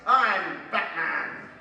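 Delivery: very slow, husky Batman line; sexiest voice. Shown as a demonstration. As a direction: drawl it out as seductively as you can. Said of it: "in your sexiest voice".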